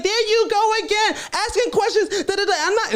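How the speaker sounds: very high put-on voice, dismissive; mocking girl's voice. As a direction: brush him off in a high taunting voice. Girl attacking him again.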